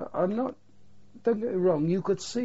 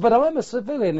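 high, loud, pleading protest; 9 semitones higher, 12 dB louder than usual. Retold or imitated. Correspondent protesting to the sergeant, loud and high-pitched.

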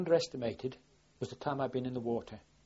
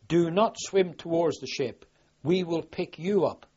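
slow, loud, raised loud-hailer announcement; loud hailer call; 4 semitones higher, 7 dB louder, slower than usual. Retold or imitated. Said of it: "an officer had got a loud hailer saying".

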